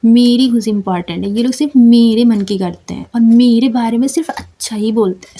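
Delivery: firm, self-assured declaration; confident attitude. Shown as a demonstration. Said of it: "इस तरीके से ना एटीट्यूड लाओ और इस टोन में". (एटीट्यूड वाला पक्का लहजा)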